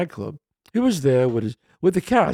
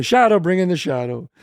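mildly raised call across a set; 4 semitones higher, 4 dB louder than usual. Retold or imitated. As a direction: imitate a crew summoning someone. Crew calling for the stand-in.

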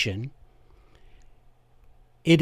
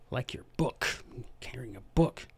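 whisper; 2 semitones lower, 11 dB quieter than usual. Real, not acted. Aside whispered to audience.

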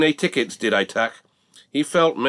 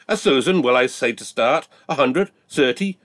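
auctioneer patter; 4 semitones higher, 3 dB louder than usual. Acted. Auctioneer dropping asking price.

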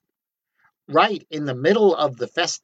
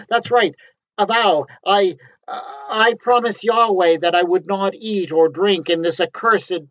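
high, loud, stammering panic; a panicked prophet inventing a vow, higher and louder; flustered refusal; 5 semitones higher, 4 dB louder than usual. Acted. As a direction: stumble over your excuses in a rush of nerves. Flustered prophet refusing king's gifts.

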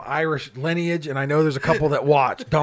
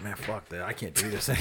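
fed up; 4 semitones lower, 9 dB quieter than usual. Retold or imitated. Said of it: "I'm just like".

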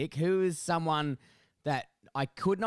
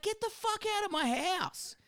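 high exasperated mock order; hammed-up outrage; mock yell. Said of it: "I was like".

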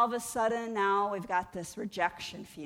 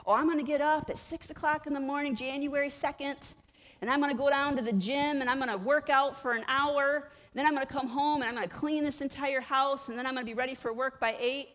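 mock-eager, a bit higher, big New Year plans; eager resolution; 6 semitones higher than usual. Woman at New Year planning gym and chores, mock eager. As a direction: rattle off the plan with overblown zeal.

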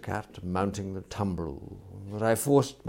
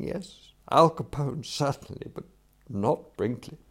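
higher-pitched, emphatic refusal; indignant young master; 5 semitones higher, 5 dB louder than usual. Acted. Employer refuses to keep knife-wielding servant, indignant. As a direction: refuse it with mild comic outrage.

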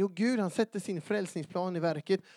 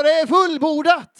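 loud, raised proclamation; crying out; 9 semitones higher, 15 dB louder than usual. Acted. Preacher correcting the quote from the cross, crying out. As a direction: shout it out in triumph. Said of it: "Han hänger på korset och ropar ut".

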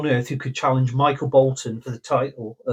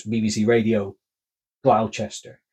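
lightly voiced rock radio ident, a touch low; 4 semitones lower than usual. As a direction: drop into a half-hearted DJ ident. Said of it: "and he goes".

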